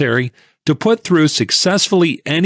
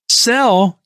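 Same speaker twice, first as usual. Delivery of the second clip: anguished yell; 10 semitones higher than usual. A narrator's reading. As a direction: shout it as if it hurts. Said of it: "yelled the tipster".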